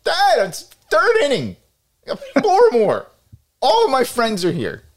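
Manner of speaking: put-on teen pushback. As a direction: talk back like an embarrassed high school kid. Teen answering yelling father.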